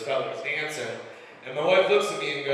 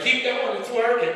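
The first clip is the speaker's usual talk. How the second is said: high-pitched, mock-aroused urging; excited wife; 10 semitones higher, 3 dB louder than usual. Wife urges husband to continue, hammed-up excitement. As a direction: imitate an eager wife, pitch well up.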